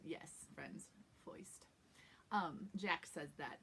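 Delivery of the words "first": soft "foist" with oy for the R; New York oy. Shown as a demonstration. Teacher confirms the word for friends, New York oy. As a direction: drop "foist" quietly, rhyming with moist. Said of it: "we're gonna say foist".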